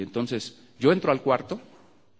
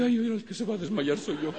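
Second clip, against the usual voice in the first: high laughing ay ay; laughing mock faint; 9 semitones higher than usual. Preacher retelling his own shock, laughing. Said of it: "yo dije".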